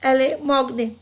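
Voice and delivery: एल मॉगने with एल and मॉगने linked as one word, le-mogne; teacher joins the article to the next word; French pronunciation. Shown as a demonstration. Teacher to students, linking the apostrophe article smoothly. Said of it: "इसके साथ ही प्रोनाउंसिएट करेंगे".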